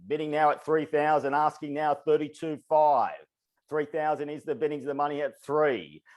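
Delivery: rapid rhythmic auctioneer patter; auctioneer call. Acted. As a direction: keep the bids rolling like an auctioneer. Runs a live auction call.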